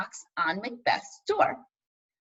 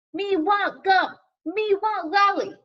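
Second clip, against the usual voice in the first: put-on high, slow baby talk; babyish demanding kid; 8 semitones higher, 5 dB louder, slower than usual. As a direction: whine like a toddler wanting sweets. Child demanding candy.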